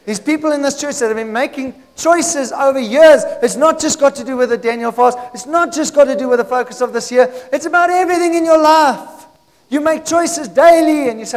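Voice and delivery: rousing sermon delivery; impassioned preaching. Real, not acted. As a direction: press the point home to the church. Preaches at full force.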